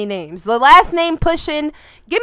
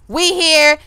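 ordinary talk

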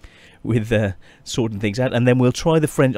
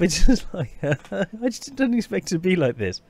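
teary laugh; 6 semitones higher than usual. Real, not acted. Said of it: "I'm, I'm welling up".

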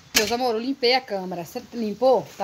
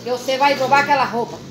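scolding; 4 semitones higher, 4 dB louder than usual. Real, not acted. Scolding son about chores.

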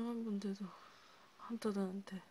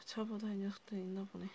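whisper; faster than usual. Acted. Healer musing to the patient about hunters, whispering. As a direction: keep it a hushed confidence. ASMR roleplay, whispered aside.

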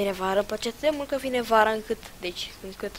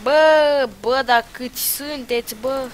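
exasperated shout; 4 semitones higher, 10 dB louder, slower than usual. Real, not acted. Outnumbered by enemies.

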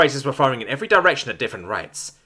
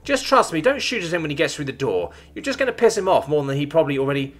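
put-on young woman voice; 7 semitones higher than usual. A narrator's reading. Iava voiced in story.

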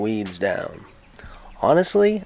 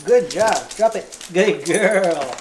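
praising a dog; 5 semitones higher, slower than usual. Real, not acted.

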